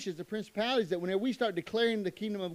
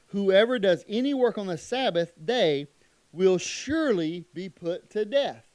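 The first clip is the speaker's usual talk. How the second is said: emphatic scripture reading; 6 dB louder than usual. Acted. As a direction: lean into the death sentence.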